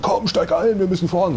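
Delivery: lightly voiced pushy instructor. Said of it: "steht der da, Alter, und sagt". (leicht gespielter drängelnder Fahrlehrer)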